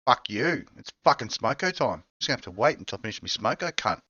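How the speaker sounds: lightly voiced Aussie tradie on smoko; gruff Aussie worker, annoyed at interruptions; aussie tradesman. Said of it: "It's so Aussie".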